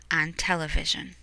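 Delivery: soft whisper to end; hushed storyteller. A narrator's reading. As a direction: drop to a whisper.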